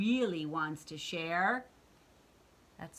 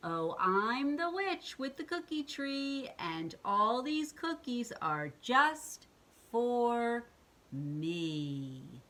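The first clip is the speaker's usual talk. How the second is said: higher, slow and smug witch gloating; slow, self-satisfied witch voice; selfish witch; 5 semitones higher, slower than usual. Acted. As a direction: savor every word like a greedy witch. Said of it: "She was also very selfish".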